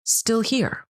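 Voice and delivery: pressing why again and again, pitch up; impassioned questions. Real, not acted. Passionate rhetorical questioning of the system.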